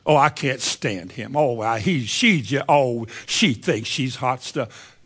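slow, sneering voice of a bitter gossip; mock spiteful grumbling about a woman; bitter scornful gossip. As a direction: drawl out the resentment. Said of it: "There's something wrong with you".

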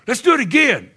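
rally the group to repeat it; excited call. Retold or imitated.

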